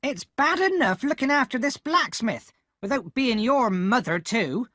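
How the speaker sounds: angry shout. A narrator's reading. Sister scolding Pip for coming home late, shouting. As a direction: yell at the boy furiously. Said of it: "my sister exclaimed".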